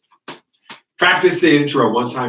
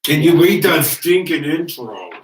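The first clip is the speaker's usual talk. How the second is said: impatient; 4 semitones higher, 3 dB louder, slower than usual. Real, not acted. Impatient demand, slow.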